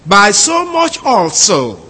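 slow, careful reading of the literal Greek. Shown as a demonstration. Teacher reading the Greek literally to the class, slow and deliberate. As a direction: spell the phrase out slowly, word by word. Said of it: "from the Greek".

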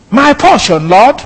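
a joyful, eager declaration; excited exclamation. Shown as a demonstration. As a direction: blurt it out with excitement. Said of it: "He was excited".

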